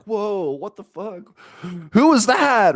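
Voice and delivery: high, loud shocked blurt; startled outburst. Retold or imitated. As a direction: jump out of your skin at a voice in your head. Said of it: "you hear this voice in your head and you're like".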